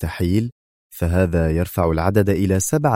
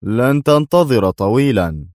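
resentful; 3 semitones higher, 4 dB louder, slower than usual. A narrator's reading. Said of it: "أجابه دوايت في حنق".

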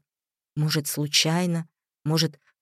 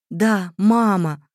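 slow, louder, eager reply; 3 semitones higher, 5 dB louder, much slower than usual. A narrator's reading. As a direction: nod along eagerly. Girl eagerly answers the doll.

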